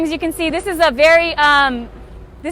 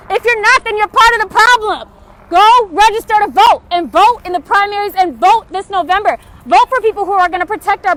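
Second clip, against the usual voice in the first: impassioned call; 3 semitones higher, 5 dB louder than usual. Real, not acted. Urging viewers to vote.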